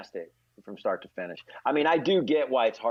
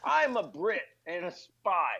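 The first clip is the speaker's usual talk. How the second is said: slow, lightly Scottish Connery voice; a hint of Connery's Scottish accent, drawn out; Sean Connery impression; 5 semitones higher, slower than usual. Comedian mocks Connery as a British spy, lightly Scottish. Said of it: "supposed to be a British spy".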